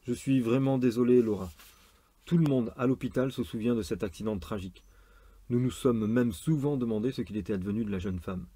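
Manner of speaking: measured, lightly acted story reading; romance narration. A narrator's reading. Surgeon consoling a nurse in a romance, story reading. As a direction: read the surgeon's sympathy with understatement.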